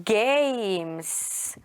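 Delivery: "Games" stretched long on the A, one syllable; games with silent E. Shown as a demonstration. Teacher modelling magic E for pupils, "Games" drawn out in one syllable. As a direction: draw out "Games" slowly, no E sounded. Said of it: "You don't hear E".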